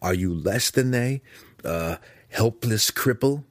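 provoking, rising in pitch; heated challenge. A narrator's reading. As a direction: challenge his pride.

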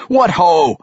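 high, jubilant dwarf voice; joyful cry. A narrator's reading. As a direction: proclaim a hearty celebration. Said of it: "cried Parson Glaive".

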